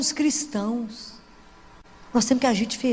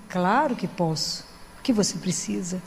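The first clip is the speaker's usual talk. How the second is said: tender reassurance; 6 semitones lower, 5 dB quieter than usual. Retold or imitated. Speaker answering a man who asked her blessing, tenderly. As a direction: reassure him gently, taking your time.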